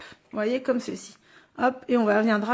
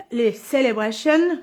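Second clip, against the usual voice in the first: French speaker attempting an English accent; 3 semitones lower than usual. Shown as a demonstration. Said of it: "avec mon accent anglais". (accent anglais)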